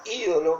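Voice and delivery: ídolo with the stress on the opening í; stress on first I. Shown as a demonstration. Preacher clarifying which word he means, first-syllable stress on ídolo. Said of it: "con acento en la I".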